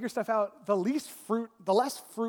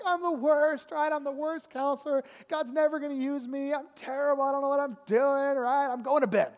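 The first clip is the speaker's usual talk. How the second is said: higher-pitched mock despair; hammed-up wail of failure; emotional self-pity; 4 semitones higher than usual. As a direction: retell an overwrought self-pitying moan. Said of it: "why are you so emotional".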